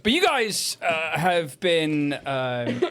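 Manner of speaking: measured scene setting over music; game master narration. Acted. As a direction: set the scene dramatically. Game master narrates combat outcome.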